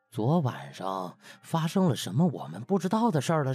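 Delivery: plain reading voice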